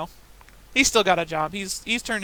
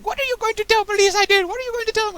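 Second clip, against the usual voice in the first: imitated screaming Russian accent, much higher and louder; mock Russian scream; 8 dB louder than usual. Customer yelling at the manager, mock Russian accent. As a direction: ham up the Russian customer's yell. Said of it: "he's standing there screaming".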